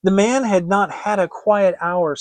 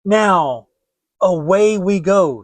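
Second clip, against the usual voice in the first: eager; 3 semitones higher, 7 dB louder, slower than usual. Acted. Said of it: "said Hansel".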